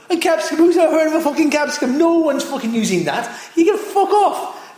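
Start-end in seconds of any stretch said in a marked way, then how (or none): 3.6-4.8 slow, high, laughing brush-off; laughing dismissal. Acted. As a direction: tell it to get lost while laughing.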